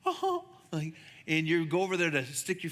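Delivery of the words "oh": amazed oh. Pretend. Kid at the Red Sea parting.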